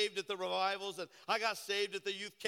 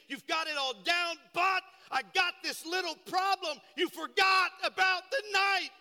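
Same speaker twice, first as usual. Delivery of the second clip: Jesus rebuking the church; 2 semitones higher, 4 dB louder than usual. Retold or imitated. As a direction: praise them, then rise to a loud rebuke. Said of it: "Jesus said".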